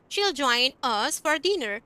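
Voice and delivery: slow, careful example sentences; teacher modelling contractions slowly; slow demo reading. Shown as a demonstration. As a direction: read each one out slowly for learners. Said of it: "she'll कर देंगे contract करके".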